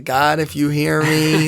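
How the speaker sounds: slow, half-mocking plea to God; sarcastic prayer. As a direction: pray as a doubter, drawing it out. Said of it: "like, kinda sarcastic".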